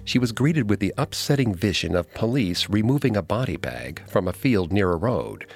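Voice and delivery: measured, ominous story narration; true crime narrator. A narrator's reading. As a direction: tell it like a true crime documentary. Co-host continues dramatic narration.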